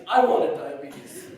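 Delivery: slow, laughing confession; laughing slowly. Real, not acted. Son confessing boyhood wish to mourners, slow and laughing. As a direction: let the laugh carry the silly wish.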